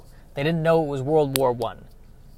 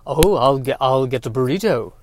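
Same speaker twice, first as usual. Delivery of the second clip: second try at a band's style; 4 semitones lower than usual. Retold or imitated. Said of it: "that's not it either".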